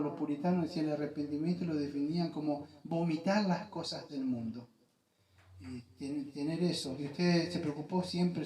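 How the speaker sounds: hushed pastor's prayer; closing prayer. Real, not acted.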